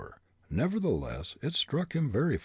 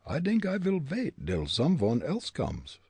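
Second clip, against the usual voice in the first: stage-German dialect, higher; comic German accent; 6 semitones higher than usual. A narrator's reading. Fritz's German dialect speech.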